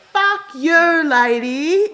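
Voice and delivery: loud, high yell out the car window; shout. Retold or imitated. Yelling at the woman who beeped, loud. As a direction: yell it at the other driver. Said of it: "I pull the window down and I go".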